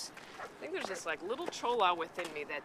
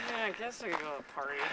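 Melissa impression; 4 dB quieter, much faster than usual. Shown as a demonstration. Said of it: "Can you do my voice?".

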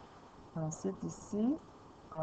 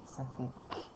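sounding out. Shown as a demonstration. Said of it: "lire tous les sons un par un".

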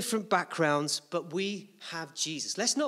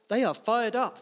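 rousing emphasis; 3 semitones higher, 4 dB louder than usual. Shown as a demonstration. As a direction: lift the crowd on the repeat. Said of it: "repeated louder and higher".

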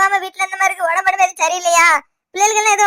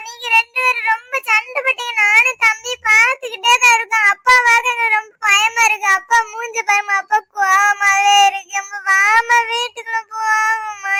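put-on tearful frightened child; 3 semitones higher than usual. Child tells mother the quarrel scares them, tearful whine. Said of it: "என் பிள்ளைகள் அழுது".

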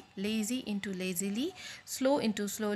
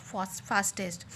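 slow spelled-out forms; 4 semitones lower, much slower than usual. Shown as a demonstration. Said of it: "it will change into what?".

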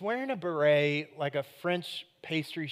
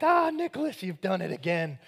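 mock delight. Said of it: "and I'm like".

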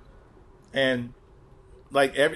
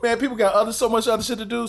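laughing; 7 semitones higher than usual. Retold or imitated. Laughing retelling of drunk crowd.

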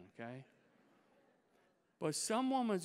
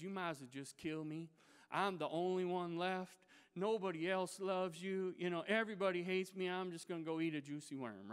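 whiny complaint; 3 semitones higher than usual. Retold or imitated. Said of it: "he begins to complain to God".

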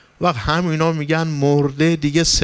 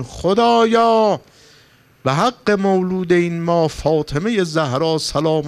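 fervent prayer cry; 2 semitones higher than usual. Real, not acted. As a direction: stretch it out as a pleading invocation. Sermon turns to fervent prayer.

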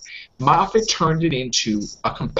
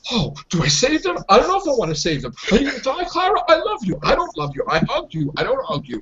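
mock indecisive Doctor; 5 semitones higher, faster than usual. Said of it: "I don't want the".

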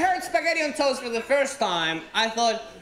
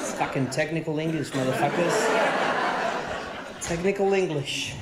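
laughing; 6 semitones lower than usual. Real, not acted. Mocking his own fancy word.

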